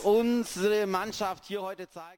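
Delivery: excited goal call. Real, not acted.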